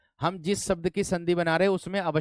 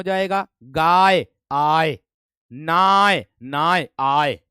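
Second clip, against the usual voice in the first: गाय, आय, नाय said louder, each ending आय punched; stressed sound demo; 6 dB louder, much slower than usual. Shown as a demonstration. Teacher to students, showing the आय sound with loud emphasis. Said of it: "इस आय का उच्चारण".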